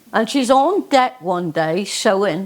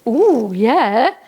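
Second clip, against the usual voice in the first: delighted Jenny; 3 semitones higher, slower than usual. Acted. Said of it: "Jenny goes".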